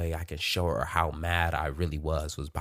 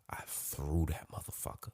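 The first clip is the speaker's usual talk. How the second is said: much softer, voiceless whisper; sheepish whisper; 10 dB quieter than usual. Shown as a demonstration. Admitting to breaking her camera, in a guilty whisper.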